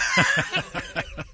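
high, breath-heavy laugh. Real, not acted. Host cracks up at the co-host's remark, high wheezing laugh.

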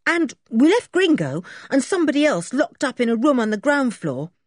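put-on high, eager boy explaining; Dick's boyish voice. Boy telling the sergeant the men are locked up, high and eager. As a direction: rattle off the news like a proud schoolboy.

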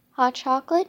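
high, hopeful little question; eager question. A narrator's reading. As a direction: ask it brightly, hoping. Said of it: "Judy asked".

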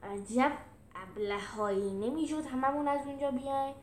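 grumbling reproach at fools; mild growl. Acted. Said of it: "میلوس قرید".

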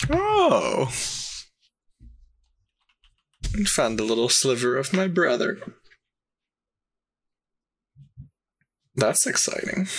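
high, delighted purr; sultry demon delight. Acted. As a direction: savour the news. Demon hears of her brother.

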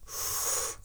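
imitated puff of breath; noisy mock puffed-up exhale. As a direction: blow out air like someone puffing himself up. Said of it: "he puffed himself up".

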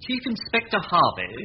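reading the report aloud, a touch formal; newspaper read. Acted. Manservant reading the news report aloud to Temple, formal read. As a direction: read the paper out to the master.

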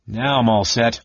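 bright, eager call-out; proud and cheerful announcement. Acted. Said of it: "he called out cheerfully".

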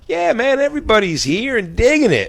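very high, stretched party cheer; hammed-up giddy high voice; mock elated. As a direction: crow it like the party's going great. Acts out relaxed, elated second round.

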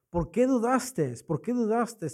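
Cristo. Retold or imitated. Imagined Christ watching Peter sink, mock reproach. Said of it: "lo reprende".

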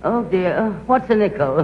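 gushing, theatrical society-lady voice; posh grande dame. Acted. Society actress chattering to cafeteria staff, posh and gushing. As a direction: play a grand actress slumming it, all airs.

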